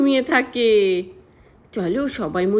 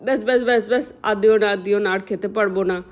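lower uncle voice; 4 semitones lower, faster than usual. Acted. Uncle refusing more food.

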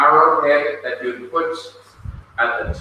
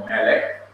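"Melek" as MEH-lek; "Melek" with a light final syllable; stress on first syllable; 2 semitones lower than usual. Shown as a demonstration. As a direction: put the accent on the Meh of "Melek". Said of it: "The accent is on Meh".

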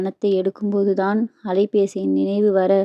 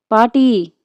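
sharp cry, louder than the rest; shrieked cry; 3 semitones higher, 5 dB louder, slower than usual. A narrator's reading. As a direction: cry out in protest at grandmother. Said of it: "சாதனாவின் வீரிடலில்".

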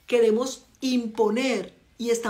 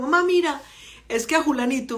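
son pleading; 3 semitones higher than usual. Retold or imitated. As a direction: coax mom into letting you go. Son asking mother to leave.

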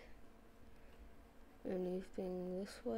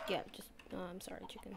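soft unvoiced apology to a chicken; whispered apology; 5 dB quieter, faster than usual. Apologising to the chicken he'll cook, in a whisper. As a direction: whisper sorry like a mock-guilty hunter.

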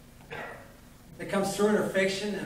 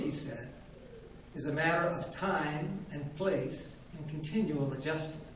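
put-on old doctor lecturing. Old doctor lecturing the widow, pompous. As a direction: lecture the widow with grand self-importance.

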